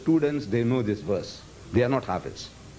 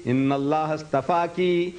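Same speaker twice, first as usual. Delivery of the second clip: 1 Quran recitation; 2 semitones higher, faster than usual. Shown as a demonstration. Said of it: "You read".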